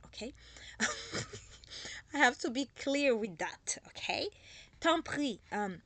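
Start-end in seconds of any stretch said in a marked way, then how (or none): 4.8-5.4 tant prie with a French accent, louder. Shown as a demonstration. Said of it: "That's my French accent when I said tant prie". (tant prie avec l'accent français)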